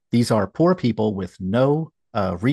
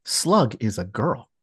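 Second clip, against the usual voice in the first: sarcastic; slower than usual. Shown as a demonstration. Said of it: "I'm being sarcastic".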